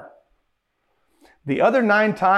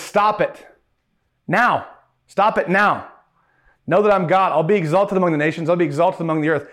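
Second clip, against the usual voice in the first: stern rebuke. Retold or imitated. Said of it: "rephrase Psalms forty-six".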